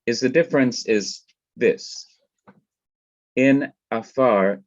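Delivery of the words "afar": "afar" with the accent on its final syllable; stress on last syllable. Shown as a demonstration. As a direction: say "afar" stressing "far", not the first "a". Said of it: "The accent is on the last syllable".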